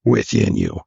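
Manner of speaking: slow, drawn-out movie-sage delivery; hammed-up solemn Force blessing; mock Force mentor. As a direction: intone it slowly, stretching the key words. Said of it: "he calls it".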